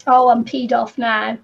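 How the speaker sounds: slow mock-angry grumble; a playful fake angry voice. Real, not acted. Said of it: "this is my angry voice".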